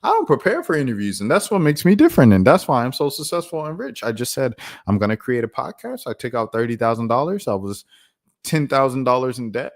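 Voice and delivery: mock self-satisfied interviewer, high and singsong; Bobby. Imitating Bobby bragging about not preparing, high mocking impression. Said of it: "She's like".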